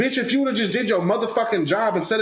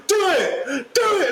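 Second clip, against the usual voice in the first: high-pitched mock taunt; retold dare; 12 semitones higher, slower than usual. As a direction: goad them in a raised, higher voice. Acted dare from the cashier.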